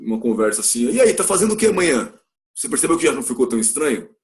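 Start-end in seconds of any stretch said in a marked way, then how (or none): 0.9-2.1 breezy, higher slangy question; laid-back buddy asking plans; casual slang. Shown as a demonstration. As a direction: toss it off like a friend. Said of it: "numa gíria".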